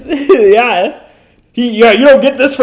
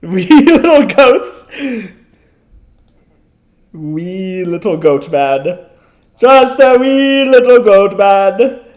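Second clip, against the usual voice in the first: slow; 3 semitones lower, slower than usual. Pretend. Savouring a silly phrase.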